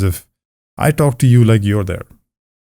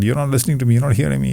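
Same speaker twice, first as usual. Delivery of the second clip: whining complaint, pitched up; whiny; 4 semitones higher, much faster than usual. Retold or imitated. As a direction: whine like you're not being heard. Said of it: "a lot of people start to whine".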